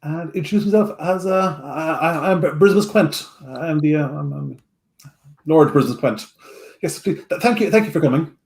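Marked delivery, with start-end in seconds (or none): 1.6-8.3 put-on stammering, flustered young lord; nervous. Nervous young lord introducing himself to hired adventurers, nervously stammering. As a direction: stumble over the words like a nervous host. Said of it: "a little bit nervous".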